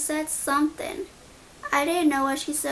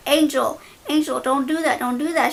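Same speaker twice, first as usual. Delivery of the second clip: imitating an urgent plea, louder; nephew holding back; 5 dB louder than usual. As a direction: reenact talking someone down, voice raised. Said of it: "he's, like, holding me back".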